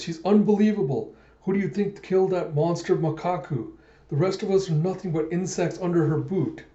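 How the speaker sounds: high-pitched, worked-up raving; hammed-up fervent praise; acted awe. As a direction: gush upward in disbelief. Guy raves about Alita's power.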